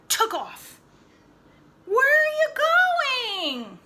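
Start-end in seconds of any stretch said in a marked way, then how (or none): 1.9-3.8 put-on loud, high call after a running boy; a dad calling after his son; yelling after him. A narrator's reading. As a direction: shout it after him as he runs off. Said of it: "Daddy yelled after him".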